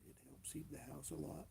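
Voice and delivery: said through a yawn. Real, not acted. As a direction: talk while yawning. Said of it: "quit that yawning".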